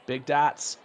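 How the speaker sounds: put-on Boston accent with dropped R; playful Boston accent. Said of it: "I heard a lot of that on the, uh, East Coast".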